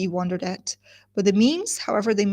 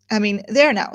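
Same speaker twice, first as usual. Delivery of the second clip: louder bright "there now"; oblivious cheer; 5 dB louder than usual. Shown as a demonstration. Teacher replaying the wife ignoring sarcasm. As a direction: chirp past the sarcasm. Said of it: "ignores the sarcasm in his voice".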